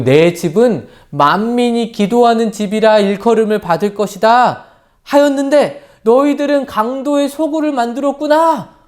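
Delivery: a mock angry cry at the temple sellers; retold angry shout. Preacher voicing Jesus driving out sellers, mock angry shout. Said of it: "라고 소리 지르시면서".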